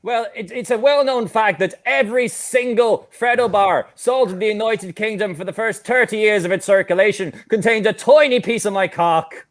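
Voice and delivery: put-on Irish accent, matter-of-fact boast. Frog caller setting out a well-known fact, Irish accent. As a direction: explain it in a mock Irish accent. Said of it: "could do an Irish accent".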